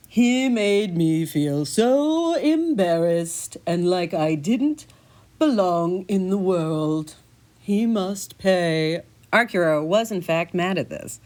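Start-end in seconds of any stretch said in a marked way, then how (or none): 0.1-9.0 slow, wounded cat voice; aggrieved cat. Acted. Cat explains the fishmonger feud, slow and sulky. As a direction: drag it out, sulky and hurt.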